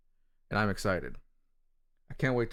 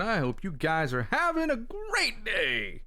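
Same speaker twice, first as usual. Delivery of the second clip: country drawl; 9 semitones higher, slower than usual. Pretend. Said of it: "don't know why I said it like that".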